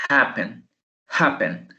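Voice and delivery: happen with HAP stressed, falling away after; stress on first syllable. Shown as a demonstration. Teacher has students repeat happen, first-syllable stress. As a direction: hit the first syllable of happen, let the second drop. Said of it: "el acento se le escucha en la primera sílaba".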